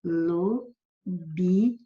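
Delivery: "Lobi" said alone, with the I clearly pronounced; syllable isolated. Shown as a demonstration. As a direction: lift out the syllable "Lobi" on its own. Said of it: "esse I não faz parte".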